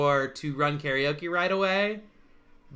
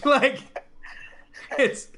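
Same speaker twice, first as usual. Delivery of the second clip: ordinary talk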